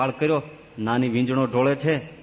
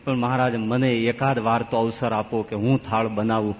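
sad pleading; 3 semitones lower than usual. Acted. Younger sister pleading through tears.

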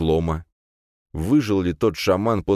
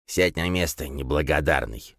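put-on creaky old voice. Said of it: "заскрипел старик".

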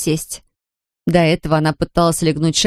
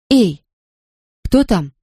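trying for menace, coming out loud and shrill; a nervous woman calling into the house, loud and shrewish; 3 semitones higher, slower than usual. A narrator's reading. Zoya calls into a dark house, loud and shrewish. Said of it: "но получилось громко и сварливо".

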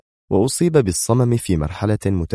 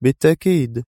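a curt, higher, gruff word; gruff and dry; 6 semitones higher than usual. A narrator's reading. Guard answers the pushy lawyer, gruff and curt. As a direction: brush him off roughly. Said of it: "بنفس الجفاف الخشن".

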